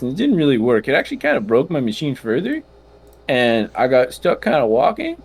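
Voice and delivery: lightly voiced tinkering gnome inventor; a hint of a chatty gnome tinkerer. That's his gnome voice.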